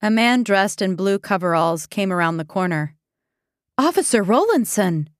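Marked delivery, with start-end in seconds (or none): 3.8-5.1 bright, higher surprised call; surprised cry. Acted. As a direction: call his name in surprise. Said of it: "Nancy cried".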